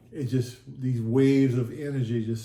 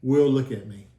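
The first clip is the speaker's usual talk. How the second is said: louder, mildly commanding; authoritative; 5 dB louder than usual. Retold or imitated. Jesus telling the bowed sinner to look up, authoritatively. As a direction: imitate a firm, authoritative order. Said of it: "in a very authoritative voice".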